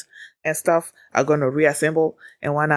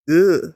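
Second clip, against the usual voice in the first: short, loud "ugh" grunt; forceful grunt; 8 dB louder than usual. Retold or imitated. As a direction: grunt it out, punched louder. Imitating a player's forceful turn villainous.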